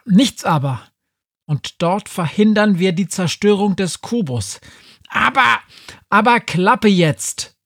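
loud, high angry cutting off; angry scolding. Acted. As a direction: shut him down, furious. Witch cuts off the cat.

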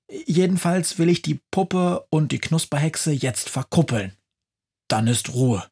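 cheeky Christmas witch defending her plan; high-pitched chatty witch, fast bursts; lively witch. Acted. Witch Befana explains her plan.

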